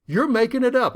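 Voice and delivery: a mock defensive snap. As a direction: throw the accusation back. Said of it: "I could be defensive".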